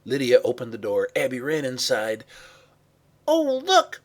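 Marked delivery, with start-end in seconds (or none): 3.3-4.0 high, loud cry of alarm. Acted. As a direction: cry out to alert everyone. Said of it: "Mahala cried".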